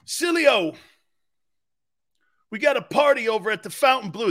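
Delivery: imitating Luther. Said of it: "And Luther would go like this".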